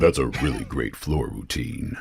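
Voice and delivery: low, deep voice-actor tone; deepest voice possible. Shown as a demonstration. Voice actor obliging host's request, deepest voice. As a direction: push it down as deep as it goes. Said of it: "say that in your deepest voice possible".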